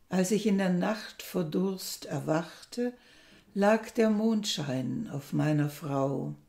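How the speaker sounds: measured poem reading with deliberate pauses; poem recitation. Acted. Presenter reads listeners a Korean love poem aloud, measured recitation. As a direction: read it line by line, unhurried, letting each image stand.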